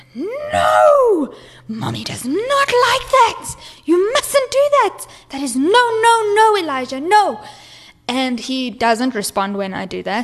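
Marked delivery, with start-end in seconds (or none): 0.5-7.4 mock very high, shrill scream, long drawn-out no. Retelling how she screamed at her child in the toilet: imitating her own scream. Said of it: "So I screamed".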